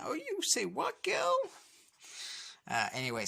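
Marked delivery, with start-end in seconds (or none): 0.0-1.3 put-on very high, sassy girl voice squealing up at the end. Teen girls gossiping, sassy high squeal. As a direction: toss it off like a sassy teen girl, pitch soaring. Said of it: "Kimberly and Trina's like".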